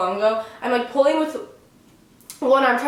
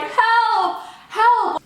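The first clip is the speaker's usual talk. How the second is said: much higher, louder mock scream; screaming for help; 11 semitones higher, 3 dB louder than usual. Stuck girl screams louder for help from the plane toilet. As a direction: belt out the cry for help, hammed up. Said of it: "gotta scream 'help' louder".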